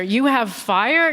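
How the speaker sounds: slow, rising mock question; quizzical repeat. Comedian repeating the Frenchman's line, puzzled. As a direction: savour the odd compliment. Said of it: "What a thing to say".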